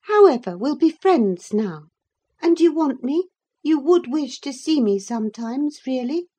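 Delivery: high, hopeful coaxing; eager girl making up. A narrator's reading. Catherine making up with Linton, high and hopeful. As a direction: reach out to him.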